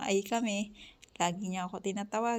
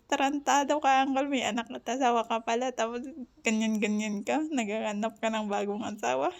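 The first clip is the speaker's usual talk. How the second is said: mock scolding; 2 semitones higher than usual. Scolding Uncle for seeking another wife, mock outraged. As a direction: rush into a teasing rebuke.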